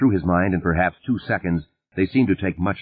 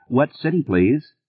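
prodding operator; 7 semitones higher than usual. A narrator's reading. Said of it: "the operator was prodding".

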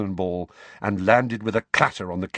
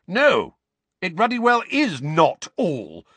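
raised, high bellow; angry bellow; 9 semitones higher, 4 dB louder, slower than usual. A narrator's reading. Uncle stopping nephew from leaving, angry bellow. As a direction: bellow it to stop him leaving. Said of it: "bellowed Uncle Vernon".

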